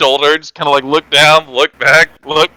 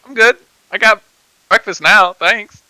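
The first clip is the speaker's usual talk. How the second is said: pitched way up, breezy and polite; high character voice; 9 semitones higher than usual. Acted. Character turning down coppers in a high voice. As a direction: float it high and light. Player voicing character declining coins.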